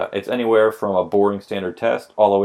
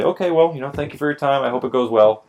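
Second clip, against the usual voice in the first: fake nice; 5 semitones higher than usual. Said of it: "I smile, I say".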